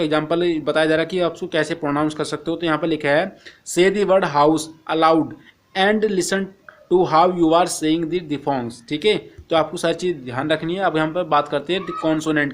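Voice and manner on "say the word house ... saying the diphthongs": slow, careful reading of the English text; slow textbook reading. Acted. Teacher reading the textbook to Hindi-speaking students, slow and careful. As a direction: read each English phrase slowly for the class.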